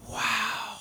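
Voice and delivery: put-on high, hushed child's wow; awed wow. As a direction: breathe it out in awe, high. Child's awed gasp retold.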